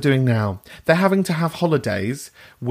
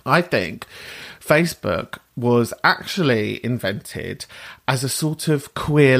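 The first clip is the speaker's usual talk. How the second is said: mock-technical. Host clears voice for a very technical thing, mock-technical. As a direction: make it a weighty technical announcement, set out deliberately. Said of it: "clear my voice for this because it's a very technical thing".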